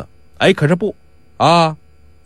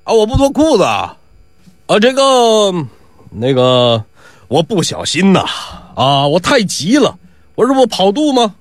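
blustering excuses; 3 semitones higher than usual. Acted. Faker makes blustering excuses.

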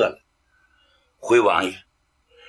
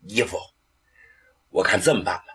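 smiling reply; 7 semitones lower, 4 dB quieter, much faster than usual. Acted. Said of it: "秦琼一笑".

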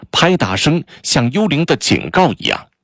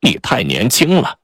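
dry disdain; 4 semitones higher than usual. Acted. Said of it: "他不以为然地说".

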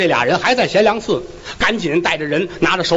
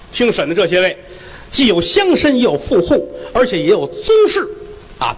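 a slightly raised, officious magistrate's voice; court magistrate. Acted. Magistrate warning the onlookers in the courtroom, officious voice. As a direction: lay down the rules from the bench.

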